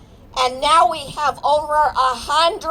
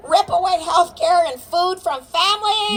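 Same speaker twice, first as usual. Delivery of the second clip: raised rallying call to the crowd; 4 semitones higher than usual. Real, not acted. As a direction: shout each question at the crowd. Speaker leads crowd call-and-response.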